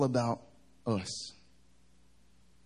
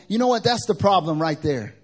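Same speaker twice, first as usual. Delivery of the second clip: raised, louder mock-angry retort; imitated upset pastor; 7 semitones higher, 8 dB louder than usual. Upset worship pastor reacting to a dating list, raised angry imitation. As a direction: act out someone suddenly fed up. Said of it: "he got so upset".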